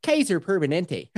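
Midwest accent on Kaiser Permanente; Wisconsin accent. Shown as a demonstration. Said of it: "to get into the Midwest accent".

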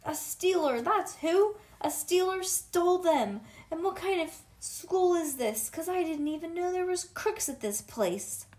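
loud, high outraged rant; indignant. Acted. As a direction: protest as the wronged party. Upset child rants about the theft.

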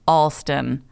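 slow, careful "Alston", beginning like all; "Alston" drawn out as ALL-ston; corrected pronunciation. Real, not acted. Host apologizes to Lindsay, carefully saying "Alston" as ALL-ston. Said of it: "Alston is pronounced Alston".

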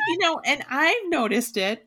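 high laugh spilling into words; laugh, then talk through it. Real, not acted. Laughs along with the others.

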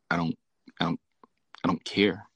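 hushed, breathless I don't care; stunned whisper. Retold or imitated. Whispering his stunned answer to his crying friend. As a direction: barely get the words out in shock.

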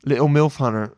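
lightly put-on British accent; mock British accent.

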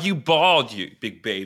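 playful mock taunt; mock teasing. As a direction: tease him like a big baby. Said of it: "Just kidding".

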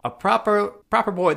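put-on high-pitched eager errand boy voice; Peppy. Mimicking the film's errand runner, high and squeaky. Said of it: "squeaky Peppy voice".

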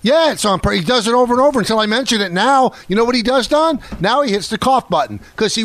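indignant, argumentative rant; heated accusation. Real, not acted. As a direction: press the charge, high and insistent. Heated accusation against co-host.

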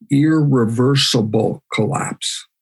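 "irreversible" drawn out slowly; emphasis on irreversible. Real, not acted. Lecturer warning of collapse, slow stress on "irreversible". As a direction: stretch out "irreversible" for weight. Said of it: "I wanna emphasize the word".

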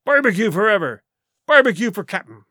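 rally behind him; cheering. Acted. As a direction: mutineers cheering their captain. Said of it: "they cried".

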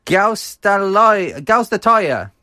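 slow, high, drawn-out Gaustatoya; Manchester accent. Shown as a demonstration. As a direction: stretch out Gaustatoya carefully. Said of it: "In your best Manchester accent".

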